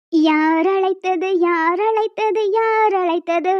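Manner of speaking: slow, drawn-out formal announcing; grand entrance. Acted. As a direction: make a dramatic, stately entrance. Warden answers the call with a dramatic entrance.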